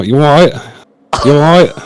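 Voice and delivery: chirpy attempt at a Cockney accent; put-on Cockney greeting; Cockney impression. Shown as a demonstration. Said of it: "can you do a Cockney?".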